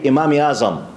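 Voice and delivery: "Imam Azam" in a Pakistani accent, article dropped. Shown as a demonstration. Lecturer shows how Kashmiri brothers say it, Pakistani accent. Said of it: "the Pakistani accent they say".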